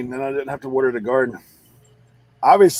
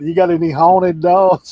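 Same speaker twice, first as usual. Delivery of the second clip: thick twang; 4 semitones higher, 7 dB louder than usual. Retold or imitated. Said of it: "Colton told that lady".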